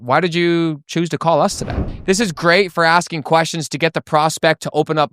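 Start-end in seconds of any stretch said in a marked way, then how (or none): 0.0-2.0 mildly curious, probing question; curious tonality. Shown as a demonstration. Salesman asking why they called today, mildly curious. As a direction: invite them to open up. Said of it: "curious or confused tonality".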